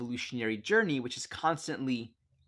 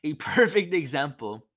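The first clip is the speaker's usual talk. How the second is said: "perfect" with a laugh, louder, falling to a settled end; laughing retake; 3 semitones higher, 7 dB louder than usual. Shown as a demonstration. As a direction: restart with a laugh and land "perfect example" with a fall. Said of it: "okay, that doesn't feel right".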